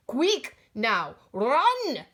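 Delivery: urgent call to run. Acted. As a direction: call out to hurry them on. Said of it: "Grandpa called out".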